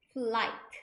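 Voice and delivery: "flight" with no G or H sound; silent GH. Shown as a demonstration. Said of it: "G H가 발음이 안 난다고". ("flight"에서 GH는 묵음으로)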